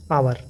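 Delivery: आवर said with no h sound at the start; silent h. Shown as a demonstration. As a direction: open आवर on the vowel, h silent. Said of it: "इसको हावर नहीं पढ़ेंगे". (आवर बिना ह के बोलें)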